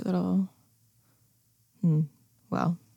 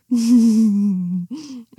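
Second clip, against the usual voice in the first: triumphant laugh; 3 semitones higher, 7 dB louder than usual. Acted. Triumphant laugh after gloating.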